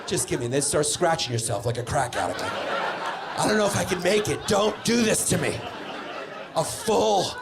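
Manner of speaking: hammed-up begging, scared and needy; mock desperate pleading. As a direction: overact the panic like a junkie. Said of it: "You act really shocked and scared".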